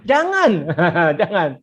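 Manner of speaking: laughing while saying "jangan". Real, not acted. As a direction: wave it off with a laugh.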